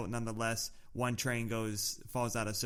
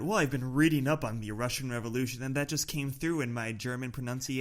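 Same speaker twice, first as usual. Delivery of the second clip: mocking imitation; 3 dB louder than usual. Host mockingly quotes co-host's excuse.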